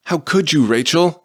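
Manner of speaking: high, loud anguished scream. A narrator's reading. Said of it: "he screamed".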